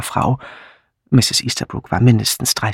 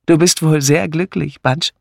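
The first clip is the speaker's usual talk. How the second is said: smiling; 3 semitones higher than usual. Acted. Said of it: "fragte ihr Mann lächelnd".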